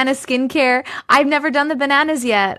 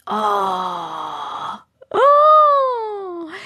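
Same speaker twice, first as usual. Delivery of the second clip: excited squeal; 6 semitones higher than usual. Real, not acted. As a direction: shriek it out with excitement. Excited nobody knows answer.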